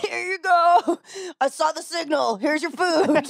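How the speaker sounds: high put-on whimper; mock sad delivery guy. Friend joins the joke, mock tearful delivery voice.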